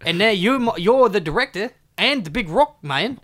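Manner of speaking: put-on Aussie Chris Hemsworth; lightly voiced Australian star; mock Chris Hemsworth. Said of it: "I'm Chris Hemsworth".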